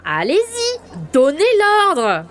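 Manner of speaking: slow, loud taunt; mocking challenge. Sergeant daring her captain to give the order, slow and mocking. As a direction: dare him, drawn out.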